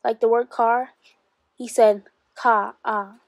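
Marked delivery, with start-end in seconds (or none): 2.3-3.2 "Ka, ah" with the r dropped, a long open ah; Boston "Ka, ah". Retold or imitated. Boy mimics Howard's Boston car, "Ka, ah" with no r. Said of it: "sounding like a crow talking into the wind".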